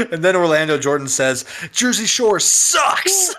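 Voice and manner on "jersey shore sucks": high, slow drawn-out mock shout; mock heel shout. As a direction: drag it out like a heel wrestler. Quoting Orlando Jordan.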